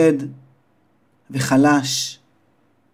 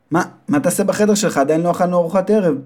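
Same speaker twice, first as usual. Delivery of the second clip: slightly high questioning mother; a hint of a puzzled mother; lightly voiced mother; 3 semitones higher than usual. Mother asks her son why he goes to bed early, lightly voiced.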